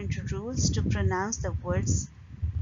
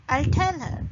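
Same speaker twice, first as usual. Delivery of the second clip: "I'll tell her" with "tell" punched high; stress on tell; 5 semitones higher, 4 dB louder than usual. Shown as a demonstration. Teacher repeating the example, strong stress on "tell". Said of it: "we put the stress on tell".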